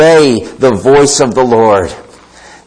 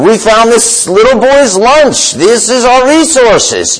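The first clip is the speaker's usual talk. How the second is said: nervous disciples; 5 semitones higher than usual. Retold or imitated. Disciples nervously presenting the lunch.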